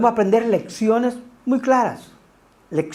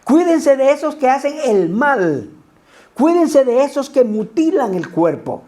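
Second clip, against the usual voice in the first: each "Cuídense" pressed at the start, a little raised; emphatic warning; 5 semitones higher than usual. Retold or imitated. Preacher echoing Pablo's warning about false teachers, pressing. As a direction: hammer the repeated warning three times.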